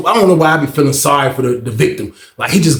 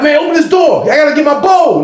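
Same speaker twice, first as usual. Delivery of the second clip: retold shout; 10 semitones higher than usual. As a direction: yell it at the guard. Inmate shouting at CO.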